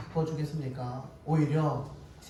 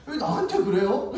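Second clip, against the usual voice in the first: mock-angry retort, pitched up; angry wife; 5 semitones higher than usual. Wife answering back to pastor husband, mock-angry protest. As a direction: lightly imitate an annoyed wife, higher. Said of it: "화를 내면서".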